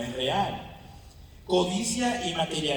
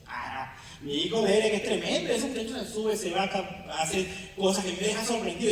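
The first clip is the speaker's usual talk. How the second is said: laughing proud father; 3 semitones higher than usual. Retold or imitated. Proud father laughing about son.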